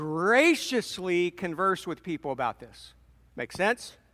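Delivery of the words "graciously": emphasized 'graciously'. Speaker teaching listeners about the book of Leviticus, stress on 'graciously'. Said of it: "I'm emphasizing graciously".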